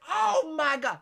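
high mock wail; retold outcry. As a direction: cry out in horror, imitating the man in the stall. Replaying stall man's cry.

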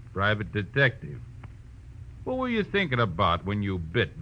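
ordinary talk, nothing marked

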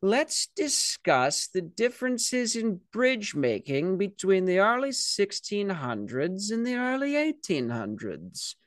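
high, slow, prim lecturing voice; stuffy Buzz Killington. Retold or imitated. Buzz Killington lecturing a frat party, high slow prim drone. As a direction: drone on like a pompous bore. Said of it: "He's like".

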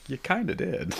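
hushed, mock-accusing; mock glaring reproach. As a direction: murmur it as a playful imitation of a glare. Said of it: "She's glaring at me like".

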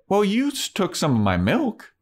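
mock petty roommate; petty Kathy. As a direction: whine the complaint. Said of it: "Kathy was gonna be like".

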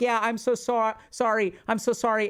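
a touch of exaggerated helpless sorry; fake weak apology. Telling the bully, hammed-up weak apology. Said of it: "Be weak".

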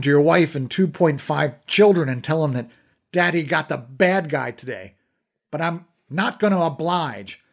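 rising angry outburst; angry accusation. Acted. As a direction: throw the accusation back at him. Accusing interrogator, rising anger.

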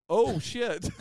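mom's shocked little curse, mildly imitated; alarmed oh shit. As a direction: blurt it out as trouble starts. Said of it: "Like that".

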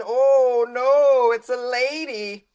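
high, loud "oh no"; surprised. Real, not acted. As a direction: catch yourself mid-sentence. Surprised reaction.

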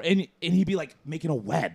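ordinary talk

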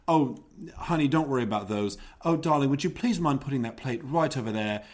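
lightly put-on posh accent, drifting between accents; a hint of a posh socialite drifting between American and British; imitating a socialite's shifting accent, lightly; mixed accent posh lady. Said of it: "So she'd say".

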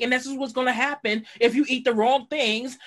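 lightly voiced exasperated doctor; a hint of a fed-up doctor scolding. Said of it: "he didn't say it like that, but he's just like".

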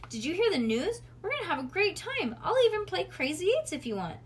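high, loud, gushing big sister; fake cheer. A narrator's reading. Nancy butters up Bean before parents leave, fake high cheer. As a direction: oversell the fun to a little sister. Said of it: "She was faking".

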